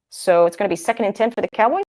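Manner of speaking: statement ending on a rising questioning tune. Real, not acted. Streamer to her chat, announcing the down with an unsure rising tune. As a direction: let the end lift as if unsure. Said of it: "why I'm saying that like a question".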